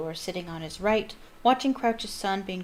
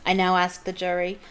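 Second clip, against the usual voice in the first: stern call; 5 dB louder than usual. Acted. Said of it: "speaking more loudly".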